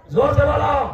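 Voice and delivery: loud call to the crowd to answer; loud call-and-response prompt. Real, not acted. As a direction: urge the congregation to shout it back. Preacher urges crowd to answer.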